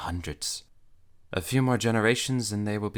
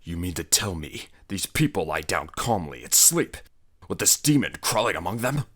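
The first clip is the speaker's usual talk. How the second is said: aghast; 5 dB louder than usual. Acted. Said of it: "he ejaculated aghast".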